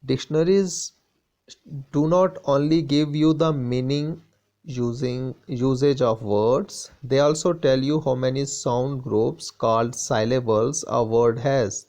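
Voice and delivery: slow, deliberate English reading; textbook read-aloud. Acted. Teacher reads the textbook to students, slow read-aloud. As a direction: read it out slowly for the class.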